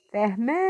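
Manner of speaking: "Fermento" with MEN stretched long and loud; stressed syllable. Shown as a demonstration. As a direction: climb onto MEN in "Fermento" and hold it. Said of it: "Essa daqui é que eu pronuncio com mais força".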